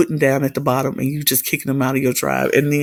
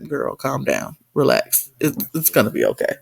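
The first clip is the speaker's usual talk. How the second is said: calming down; 4 semitones lower than usual. Acted. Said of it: "but I'm like".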